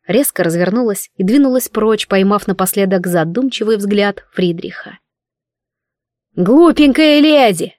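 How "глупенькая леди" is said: teasing call. Acted. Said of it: "донеслось вслед".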